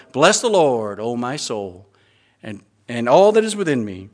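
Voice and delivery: put-on a gentle nod to an old raspy radio preacher; Lester Roloff. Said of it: "his old raspy voice".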